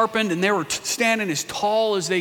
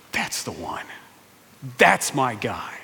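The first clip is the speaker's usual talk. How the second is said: God's voice; 7 semitones lower than usual. Acted. The Lord telling Samuel David is the one, low and calm. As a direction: say it low and sure, as God choosing.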